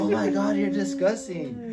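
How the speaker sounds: hammed-up gross-out reaction; mock disgust. Retelling his reaction to the toilet story, high and loud.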